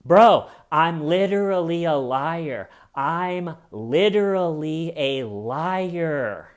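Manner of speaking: mock panicked bro confession; frantic confession. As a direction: blurt it out in a panic. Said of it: "he launches into the".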